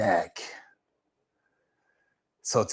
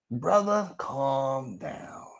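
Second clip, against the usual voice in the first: soft calm-down; 8 dB quieter, much slower than usual. Real, not acted. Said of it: "calming the upset men".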